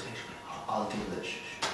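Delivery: calm him down with a hush; hushing quiet. Retold or imitated. Man quietly hushes the angry guy, soft. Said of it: "he says".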